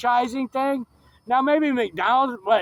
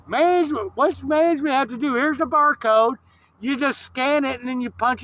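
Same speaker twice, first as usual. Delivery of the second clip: high-pitched incredulous rant; exasperated, pitched up; indignant; 5 semitones higher than usual. Retold or imitated. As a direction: throw the excuse back in disbelief. Indignant rant answering the clerk's excuse.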